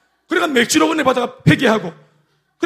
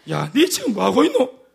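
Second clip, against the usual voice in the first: slow inner rebuke; slower than usual. Retold or imitated. God's voice inside, rebuking.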